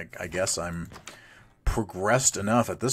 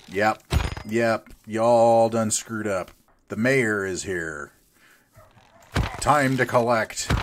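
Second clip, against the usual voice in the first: slow, louder swaggering threat; menacing villain; 3 semitones higher, 5 dB louder, slower than usual. Pretend. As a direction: gloat like a villain cashing in. The mayor arrives to raid.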